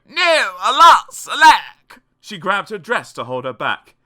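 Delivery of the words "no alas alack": loud melodramatic lament; hammed-up princely outcry; crying out. A narrator's reading. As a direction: wail it high as a stricken prince. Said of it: "The prince cried".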